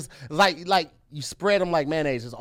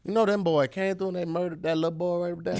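North Carolina accent; 3 dB quieter than usual. Shown as a demonstration. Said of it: "So that's a North Carolina thing".

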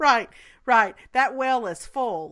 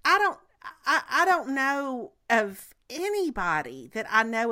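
real catch in the voice, laughing through tears; getting teary over how much he feels; choked up; 2 semitones higher than usual. Real, not acted. Friend to cohost about Garth, voice breaking with a laugh.

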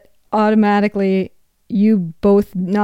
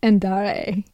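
American accent; 3 dB quieter than usual. Shown as a demonstration. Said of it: "That's how I would say it".

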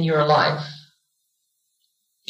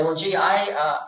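laughing bravado; 4 semitones lower than usual. Retold or imitated. Soul boasting to karma council.

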